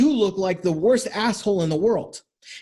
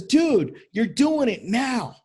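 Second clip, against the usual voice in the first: calling him out; 3 semitones higher, slower than usual. Retold or imitated. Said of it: "the guy looks at him and says".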